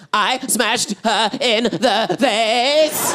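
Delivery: slow, high mock little-boy sobs; talking while sobbing. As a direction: sob out each word like a small boy. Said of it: "talking and sobbing at the same time".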